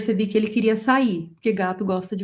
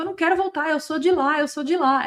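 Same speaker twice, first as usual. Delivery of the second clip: higher, pleading little cat voice; voicing the cat; 6 semitones higher than usual. Owner voicing her rescued cat refusing to come back, in a higher pleading voice. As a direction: speak as the cat, begging to go home. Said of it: "Era como se ele falasse comigo".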